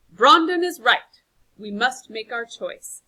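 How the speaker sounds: loud, slow, weighty declaration; slow emphatic call to decide. Acted. Keeper of orchard addresses council, loud and slow. Strong John declares decision.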